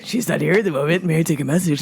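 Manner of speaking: low, polite phone voice; lightly put-on deep voice; deep man's voice. Woman offers caller to take a message, deep voice. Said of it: "to the super deep voice".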